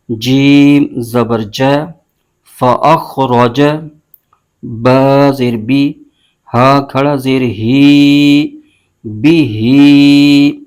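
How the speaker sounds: slow, drawn-out chanted spelling of letters and vowel marks; Quran spelling drill. Shown as a demonstration. Teacher spelling a Quran word for students, slow recitation chant. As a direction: chant each letter and mark slowly, like a tajweed teacher. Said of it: "اب اس کے ہجے یوں کریں گے".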